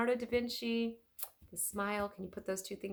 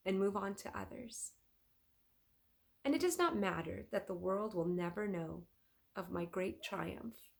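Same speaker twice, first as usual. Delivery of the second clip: put-on peaceful old master at rest; gentle Leonardo.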